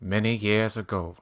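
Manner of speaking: a hint of a famous narrator impression; Morgan Freeman. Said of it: "can I do Morgan Freeman".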